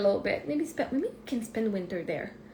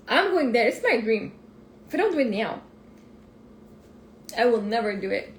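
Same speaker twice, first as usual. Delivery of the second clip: firm, louder vow to God; determined declaration; 4 dB louder than usual. Retold or imitated. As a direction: declare it like a promise you won't break. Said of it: "I said to God".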